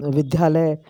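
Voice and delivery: विद्यालय said as "vidhyalay"; mispronounced विद्यालय. Shown as a demonstration. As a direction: breathe the d in विद्यालय into "dh". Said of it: "शब्दों के उच्चारण की शुद्धता".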